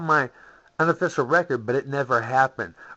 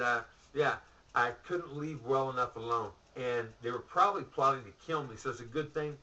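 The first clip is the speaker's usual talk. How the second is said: ordinary talk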